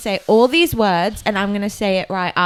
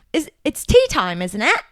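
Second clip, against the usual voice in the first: British accent demo. Shown as a demonstration. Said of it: "That's good".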